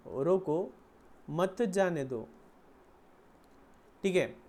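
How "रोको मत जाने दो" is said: रोको on its own, pause, then "मत जाने दो" together; pause after रोको. Shown as a demonstration. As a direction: separate रोको, join मत to जाने दो. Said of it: "उसका मैसेज क्या था?". ("रोको", विराम, फिर "मत जाने दो" साथ में)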